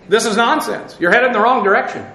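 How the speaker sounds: brisk correction to a straying believer; firm rebuke. Acted. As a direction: confront a straying friend. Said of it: "say something to 'em".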